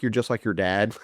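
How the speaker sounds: a laughing dig about the dad; laughing mock jab. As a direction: tease it while laughing. Mock quarrel quote, laughing.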